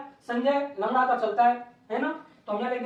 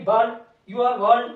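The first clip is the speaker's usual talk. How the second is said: louder than usual, slow; slow repeat; 7 dB louder, much slower than usual. Shown as a demonstration. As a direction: repeat it slowly so the class can copy. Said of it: "teacher repeats answer slowly". (धीरे-धीरे दोहराते हुए)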